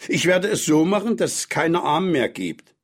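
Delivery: put-on high-pitched childlike resolve; eager child. A narrator's reading. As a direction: vow it like a determined boy. Boy vowing in story. (entschlossene, hohe Kinderstimme)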